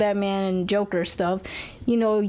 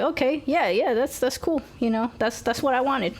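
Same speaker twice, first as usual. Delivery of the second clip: higher-pitched, easygoing approval; pleasantly surprised; 5 semitones higher than usual. Retold or imitated. Co-host recalling her reaction to the movie, pleasantly surprised. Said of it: "I was pleasantly surprised".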